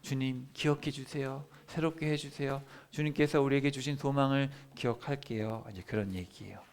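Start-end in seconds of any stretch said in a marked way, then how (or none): 0.0-5.6 lamenting prayer. Retold or imitated. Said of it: "그 다음에".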